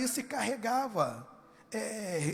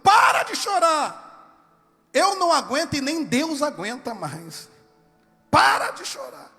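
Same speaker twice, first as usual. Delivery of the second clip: fed-up shout; 3 semitones higher, 7 dB louder than usual. Acted. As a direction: shout him out of his tears. Isaiah insists, stop crying.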